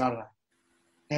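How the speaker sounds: slow, blank "I don't know"; clueless shrug. Retold or imitated. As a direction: play dumb, drawn out. Clueless reply to coach.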